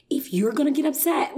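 mock the attendant's admonishing tone; a flight attendant scolding a passenger, in mock nasty tones; mimicking a nasty tone. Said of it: "in a really nasty tone".

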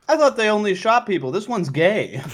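high, astonished disbelief; amazed audience member. Retold or imitated. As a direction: gasp it out in disbelief. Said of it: "Everyone's like".

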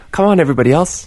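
lifted pleading voice calling everyone over; high pleading mock call. Host begging friends to come to the show, high and pleading. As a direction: beg the others to come, pitched high. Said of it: "You're the first person to say yes".

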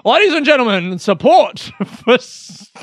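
announcer voice breaking into laughter; mock announcer. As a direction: launch the ad like a showman. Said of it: "Maybe I'll do it now".

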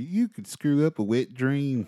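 put-on high, slow, loud Southern accent. Co-host offering a saying for the Southern routine, slow Southern accent. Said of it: "You can say it like".

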